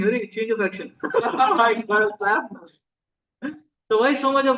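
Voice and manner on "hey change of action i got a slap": imitating a puzzled child while laughing; chuckling, hammed-up bewilderment; amused mock wonder. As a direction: laugh through the child's surprised reaction. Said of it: "This fellow is wondering".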